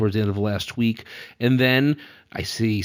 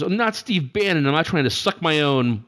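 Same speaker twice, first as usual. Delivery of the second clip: Mooch impression; 5 semitones higher than usual. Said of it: "He goes".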